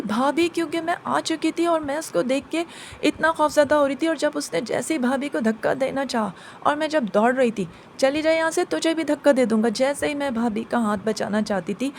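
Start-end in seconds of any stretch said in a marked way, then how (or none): 0.0-0.5 loud frightened cry of her name; calling out in fright. Retold or imitated. Sister-in-law being pushed off the roof, loud frightened call. 8.0-9.7 loud furious threat; angry jinn shout. Retold or imitated. Jinn shouting at the girl to get away, loud and angry.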